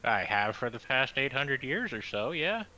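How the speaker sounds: lightly drawled southern voice; southern accent. Acted. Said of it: "Why is Aesir suddenly southern?".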